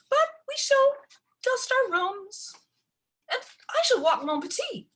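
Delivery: put-on high, affected society girl voice; haughty Gerda. A narrator's reading. Stepsister Gerda mocks Ella about chores, high and prissy.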